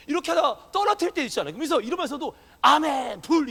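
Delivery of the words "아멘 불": loud ringing revival-preacher cry; imitating a fiery preacher's loud call; revival preacher's shout. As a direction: belt it out like a revival preacher tossing the mic. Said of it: "이래요".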